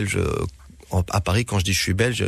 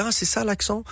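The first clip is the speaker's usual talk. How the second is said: surprised realization; 12 semitones higher than usual. Retold or imitated. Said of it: "Ils disent".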